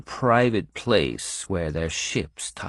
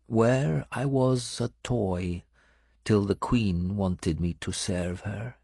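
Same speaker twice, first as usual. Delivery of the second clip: Benedetta's voice; 2 semitones higher, slower than usual. Acted. Benedetta recalls her captivity.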